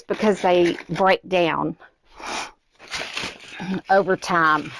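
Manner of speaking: slightly winded, breathy pauses; out of breath. Real, not acted. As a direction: talk while a bit winded. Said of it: "I don't know why I'm out of breath today".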